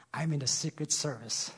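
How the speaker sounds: a lightly hushed, secretive reply; whispered back. A narrator's reading. Friend answers the pastor in a hushed voice. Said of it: "He whispered back".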